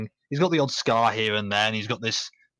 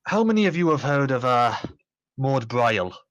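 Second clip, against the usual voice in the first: put-on amateur Scottish accent; 2 semitones higher than usual. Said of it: "my terrible Scottish accent".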